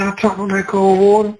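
rising excitement at the memory; amused build-up; excited. Retold or imitated. Recalling shock of cold shower.

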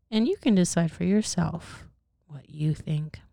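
lightly acted first-person tragic tale; measured read-aloud storytelling; story narration. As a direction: tell the grim story steadily to a listener. Sinner tells his tragic tale.

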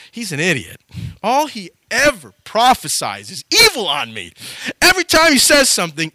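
grudging admission building into heated complaint; aggrieved, mildly hammed-up griping; exasperated grumbling. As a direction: complain bitterly about a man you can't stand. Acted grudge against hated prophet.

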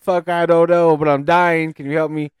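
high, loud comic desperation, easing off; panicked plea. Retold or imitated. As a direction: beg for help as if dying. Retold panicked plea to wife.

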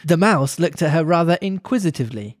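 measured storybook read-aloud; story narration. A narrator's reading. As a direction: read it aloud like a children's classic.

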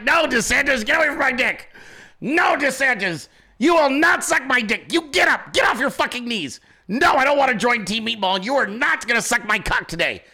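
mock outraged scolding; acted indignant refusal.

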